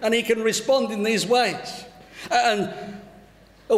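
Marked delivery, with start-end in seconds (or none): 0.0-1.8 higher, quick, lightly thrilled retelling; a touch of acted amazement; mildly ecstatic. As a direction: gush a little, acting the delighted owner. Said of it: "the man is ecstatic".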